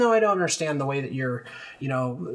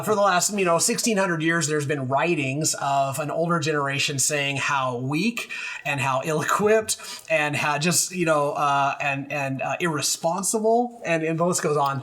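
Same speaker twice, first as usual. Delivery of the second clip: put-on cranky old man; 2 semitones higher than usual. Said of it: "cranky old man voice".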